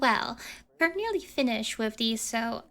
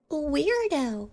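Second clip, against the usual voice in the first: mocking jab; 5 semitones higher, 5 dB louder than usual. Accomplice mocking blushing prisoner.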